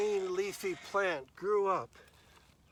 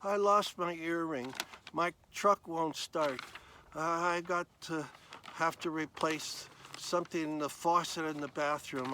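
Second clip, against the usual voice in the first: mock fretting; 3 dB louder than usual. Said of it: "more concerned about things".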